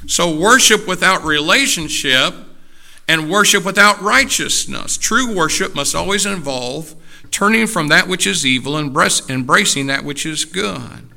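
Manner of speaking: emphatic pulpit voice; forceful preaching. Real, not acted. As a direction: drive the point home to the congregation.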